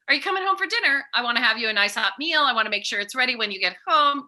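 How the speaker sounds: fast, gentle motherly offer; mean it kindly, a caring mom. Retold or imitated. Mother's intended tone for her son's dinner text, caring. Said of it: "Me, in my head".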